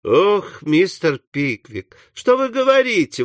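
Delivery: lightly voiced dismayed young ladies; exclaim, leaping high on the question; mild high-pitched dismay; shocked exclamation. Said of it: "в один голос воскликнули Эмили и Арабелла".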